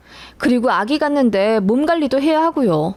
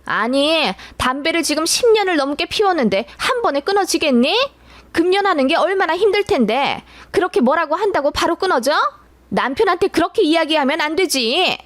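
mother-in-law flaring up, voice pitched higher; sudden outburst; 6 semitones higher than usual. Retold or imitated. Mother-in-law snapping at daughter-in-law, higher-pitched retold outburst. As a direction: snap back at the daughter-in-law in a raised pitch. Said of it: "갑자기 버럭 화를 내시더라고요".

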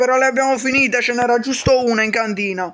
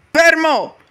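sharp loud halt; barked order; shouted command; 5 semitones higher, 4 dB louder than usual. Acted. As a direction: stop him dead with a shout. Guard orders him to stop.

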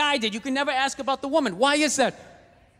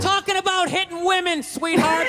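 sarcastic shout; 6 semitones higher than usual. Real, not acted. Snapping back at heckler.

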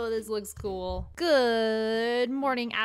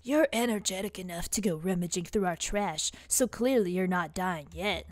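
sultry emo voice; 2 semitones lower than usual. Acted. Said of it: "a sultry emo voice for these characters".

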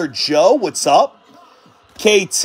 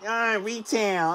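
mocking commenters; 9 dB quieter than usual. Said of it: "I don't wanna hear anybody ever say that".

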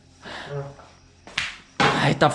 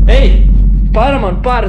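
scared shout; 8 dB louder than usual. Real, not acted. Transformed friend frightening him.

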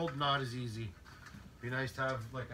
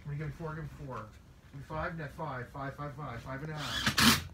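auctioneer; faster than usual. Pretend. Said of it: "You can tell I've been watching some cattle auctions".

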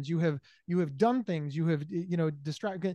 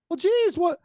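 pitched way up, slow mock surprise; hammed-up dismay; 12 semitones higher, 4 dB louder, slower than usual. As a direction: ham up the let-down, high and drawn out. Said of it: "feigned disappointment".

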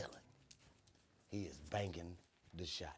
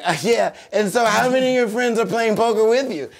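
high mocking cashier voice; 14 semitones higher, 16 dB louder than usual. Teen to cashier, high loud mock voice. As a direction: raise the pitch and play dumb.

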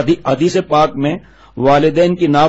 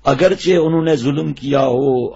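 slow emphasis; slower than usual. Shown as a demonstration. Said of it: "غور سے سننا".

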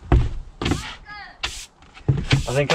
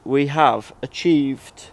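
slowing down into spaced-out words; presenter-like delivery, increasingly drawn out; slow up and pause before the last word; talking slowly; much slower than usual. Shown as a demonstration. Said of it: "that's why I'm talking really slowly".

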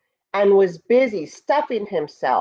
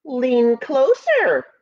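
slow, higher mock shout; ant shouting; 5 semitones higher, slower than usual. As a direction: call up to the goat. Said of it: "shouted Ant".

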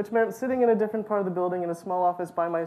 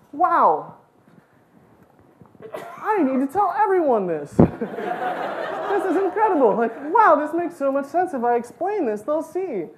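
giddy, laughing rush of discovery; bubbling over with a big new idea; excited; 8 semitones higher, 6 dB louder than usual. Retold or imitated. Kid telling herself the world has no God, giddy with laughter.

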